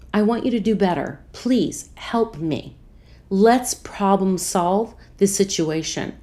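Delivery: slow, earnest appeal; respectful, kind. Retold or imitated. Asking the pharmacist to help problem-solve, kindly. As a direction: plead gently, leaving space between phrases. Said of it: "I say it very respectfully, very kindly".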